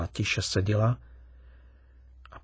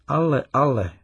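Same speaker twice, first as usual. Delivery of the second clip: amused; 4 semitones higher, 5 dB louder than usual. A narrator's reading. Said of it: "řekl pobaveně".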